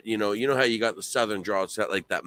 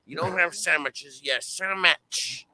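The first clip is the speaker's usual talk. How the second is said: higher Canadian mountain twang, tightened up; Canadian mountain twang, raised pitch; 5 semitones higher than usual. Shown as a demonstration. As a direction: keep the high tight twang going. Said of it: "talking a little bit higher".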